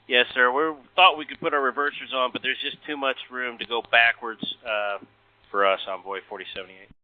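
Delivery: tinny cockpit radio call; air traffic control radio. Real, not acted. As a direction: pilot talking over the radio. Recorded pilot radio call.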